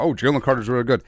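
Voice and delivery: imitating surprised fans, quick; lightly hammed-up surprise; mock freak-out. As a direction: rattle it off in feigned amazement. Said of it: "people freaking out".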